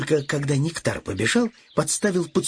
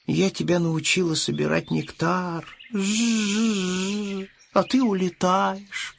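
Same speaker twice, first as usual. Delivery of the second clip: sighing; slower than usual. Acted. Bee sighs as the piglet flies away. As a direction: say it with a sad little sigh. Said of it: "вздохнула пчела".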